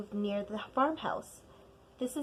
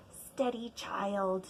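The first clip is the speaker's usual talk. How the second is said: softly steadying, quieter; gentle grandma; 4 dB quieter, slower than usual. Acted. Grandma calming the scared child, softly. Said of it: "she said".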